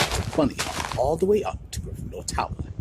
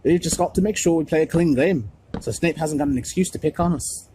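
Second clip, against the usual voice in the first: higher, louder insistent captain; urgent team captain; 5 semitones higher, 5 dB louder than usual. A narrator's reading. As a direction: drive the point home.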